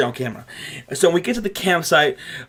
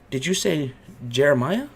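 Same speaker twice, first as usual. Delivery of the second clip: soft creepy questioning; creepy owner mishearing the name; creepy old man; 5 dB quieter than usual. Retold or imitated. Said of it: "And he goes".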